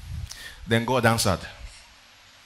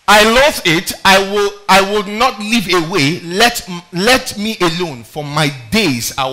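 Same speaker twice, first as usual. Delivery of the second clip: loud, slow reading of Job's loathing; 3 semitones higher, 5 dB louder, slower than usual. Acted. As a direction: drag the words out loud and slow. Job's loathing read aloud.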